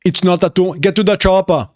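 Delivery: quick-fire mock Austrian catchphrases; thick Austrian accent, action-hero style; Arnold Schwarzenegger. Streamer runs through film quotes, heavy Austrian accent.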